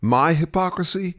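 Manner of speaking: high, offended echo question; indignant disbelief. Acted. Arguer throwing back a charge of hypocrisy, indignant. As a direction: throw the accusation back in mock outrage.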